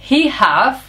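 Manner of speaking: hint of mom proudly showing off her English; imitating mom's English. Son retells his mother introducing him, in her voice. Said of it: "Y mi madre me miró a mí y dijo".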